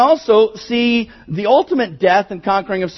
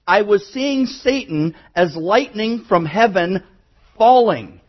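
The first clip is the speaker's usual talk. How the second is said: pause, then land firmly on "falling"; slow phrase, with "falling" set apart at the end; stress on falling; slower than usual. Shown as a demonstration. Preacher shows the congregation the Greek word order, stress on "falling". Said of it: "whatever is to be emphasized falls at the end".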